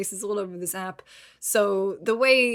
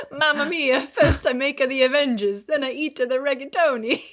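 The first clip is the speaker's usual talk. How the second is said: put-on Italian accent; 3 semitones higher, 3 dB louder than usual. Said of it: "you've got Italian Jeremy Renner".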